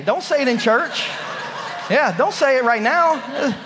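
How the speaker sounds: chuckling while warning; real laughter in the voice; laughing. Real, not acted. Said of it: "laughing through it".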